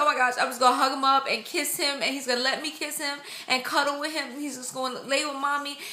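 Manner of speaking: high, gushing retold daydream; so excited. Mother-to-be imagining cuddles with her son, excited. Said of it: "I just got so excited".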